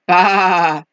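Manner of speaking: lightly voiced sheep; storybook animal noise; sheep bleat. A narrator's reading. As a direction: draw out a low baa. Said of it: "Sheep said".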